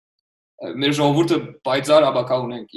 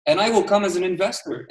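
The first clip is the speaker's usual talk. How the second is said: much higher, insistent retelling of his answer; retelling his firm answer to startup founders, high and insistent; emphatic reply; 7 semitones higher than usual. Retold or imitated. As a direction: push back firmly with lifted pitch. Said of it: "I'm like".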